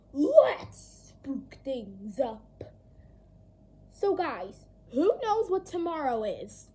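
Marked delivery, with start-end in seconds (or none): 0.1-2.6 slow eerie whisper; spooky whisper. Acted. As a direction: whisper it to give chills. Spooky show catchphrase.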